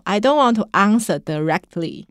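attempted English accent. Shown as a demonstration. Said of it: "Yeah, that's not bad".

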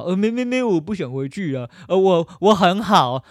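mocking imitation of a stubborn victim; mocking the rescued victim. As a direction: ham up a dazed victim refusing to go home.

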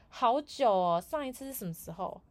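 ordinary talk, nothing marked

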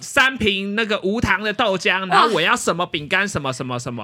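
half-hearted holler of an order; retold calling out. Customer on a bike shouting an order into the shop, mock holler. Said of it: "他就对着店里面大喊说".

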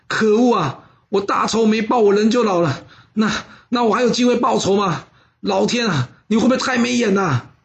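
a mild mock wail at fate; wailing lament. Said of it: "他当场放声大哭啊".

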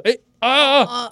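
high, drawn-out "ah" of nearly crying; odd moan. Retold or imitated. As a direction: imitate being on the verge of tears with a weird cry. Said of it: "叫的方式都怪怪的".

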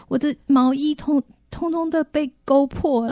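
high, whining complaint; whiny complaint. Retold or imitated. Wife complaining, voice rising.

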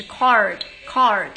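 card的R卷得非常明显，音量加大; 加拿大式card，R卷很重; strongly rolled R card. Shown as a demonstration. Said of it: "就是非常非常的卷". (示范加拿大人非常卷舌的card)

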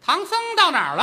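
high, loud monster snarl; hammed-up opera demon. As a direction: turn round like a hungry she-demon. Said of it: "你母亲一回头".

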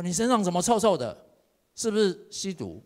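suspicious mom. Retold or imitated. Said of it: "我妈都每次都说".

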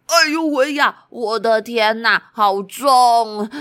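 groaning under the weight; strained deer voice. Acted. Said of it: "雄鹿先生忍不住了，他说".

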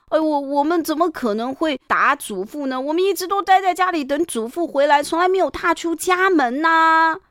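pleading grandsons. A narrator's reading. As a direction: kowtow and insist they never left. (孙子们委屈辩解)

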